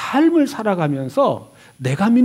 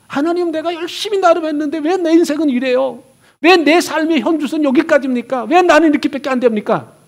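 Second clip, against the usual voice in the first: 원망 섞인 푸념; 6 semitones higher, faster than usual. Retold or imitated. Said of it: "원망 섞인".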